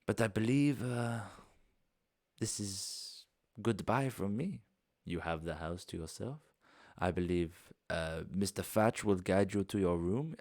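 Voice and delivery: lightly voiced courteous foreign host, unhurried; a hint of a genteel host saying farewell; polite foreign host. Bastian bidding guests goodbye, lightly voiced.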